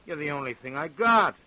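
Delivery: pleading that turns loud and possessive; desperate. Acted. Father pleading, then possessive.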